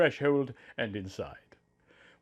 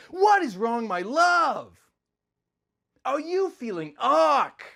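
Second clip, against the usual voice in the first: lightly voiced concerned Link; Link's voice; 10 semitones higher than usual. Link asks his wife tenderly, lightly voiced and concerned. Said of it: "Link came up behind me".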